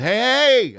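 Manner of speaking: high, loud call to a hostile room; opening shout. Retold or imitated. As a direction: grab the crowd's attention. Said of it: "I opened up with".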